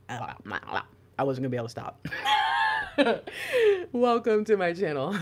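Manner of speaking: breaking up with laughter; real helpless high laughter; laughing. Real, not acted. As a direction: try to talk through a real giggling fit. Cracks up after her fake accent.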